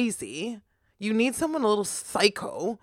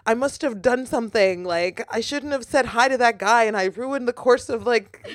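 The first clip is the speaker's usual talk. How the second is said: higher, hammed-up time-traveller panic; mock panic; 4 semitones higher, 4 dB louder than usual. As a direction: play horrified at your own mistake. Acts panicked time traveller who changed history.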